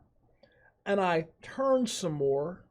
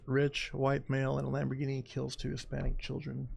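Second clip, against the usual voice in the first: headline read; 7 dB quieter than usual. Retold or imitated. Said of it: "That's what the headlines would say".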